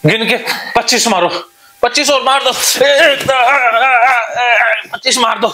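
excited coach yelling encouragement; fired-up shouting. Real, not acted. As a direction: pump him up, push him to keep going. Healer urging patient to hit harder.

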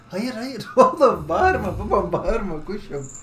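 gülerek yüksek sesle uyarı; kuşu güle güle azarla; kuşa uyarı. Real, not acted. Kuşu susturma. (kuşa gülerek yüksek uyarı)

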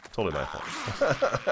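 slow, laughing through the words; laughing apology. Real, not acted. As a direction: chuckle while owning the mistake. Apologising to teammates after mistake.

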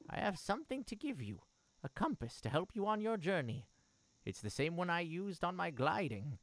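lightly voiced caring mother. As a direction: speak as a gentle mother.

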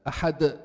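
أحد with a bounced final d; qalqalah. Shown as a demonstration. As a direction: release the د of أحد with a slight vibration. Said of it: "This vibration is the قلقلة".

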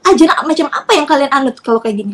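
retold tirade, indignant and forceful; angry accusation. Mother accusing the in-laws of separating her child, angry. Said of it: "Marah saya pada saat itu".

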